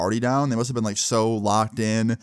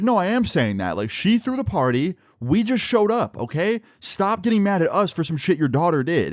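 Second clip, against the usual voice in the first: defiant interruption; 6 semitones higher than usual. Retold or imitated. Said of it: "then Aaron interrupts".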